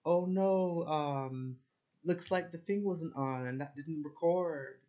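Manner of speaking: high fake-innocent officer voice, slow at the end; mocking officer. Mocking an annoyed interviewer to viewers, fake innocent. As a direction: play her as sweetly pretending the tape failed. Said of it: "She just went".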